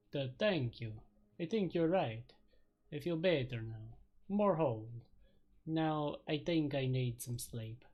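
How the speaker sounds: relieved vampire voice. Acted. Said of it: "hard to do a vampire voice for very long".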